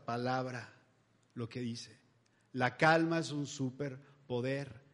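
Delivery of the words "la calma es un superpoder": "La calma es un superpoder" spoken slowly, each word weighed; slow emphasis. Shown as a demonstration. Preacher repeating the shirt's motto to his audience, slowly. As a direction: lay the motto down slow and deliberate. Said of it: "Lo poderoso de esa playera es la frase".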